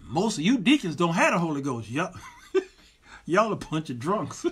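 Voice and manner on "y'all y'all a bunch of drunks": laughing at his own jab; laughing through a joke. Real, not acted. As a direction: chuckle through the tease, half-laughing. Joking at deacons' expense.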